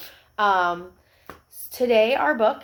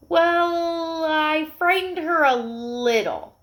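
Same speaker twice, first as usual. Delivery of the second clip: small puppy voice; 7 semitones higher, 3 dB louder, much slower than usual. Acted. Puppy confessing to mother.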